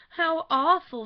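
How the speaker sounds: loud high wail of dismay; groaning dismay. A narrator's reading. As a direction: wail it as she collapses in a chair. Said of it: "dropped groaning into a vacant armchair".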